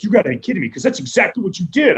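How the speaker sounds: high, incredulous brothers; lightly voiced incredulous brothers; brothers' disbelief. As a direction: toss it up in mock disbelief. Brothers' shocked reaction retold.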